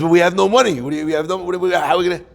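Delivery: mild mock alarm, breaking off mid-question; worried mother. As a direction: imitate a mother stumbling over her worries. Mother frets about money, acted.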